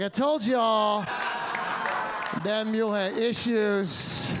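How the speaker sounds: drawn-out, emphatic I told y'all; slow told-you-so. Retold or imitated. Comic telling the guides off, in a slow vindicated drawl. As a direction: lean on every word, vindicated. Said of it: "I was like".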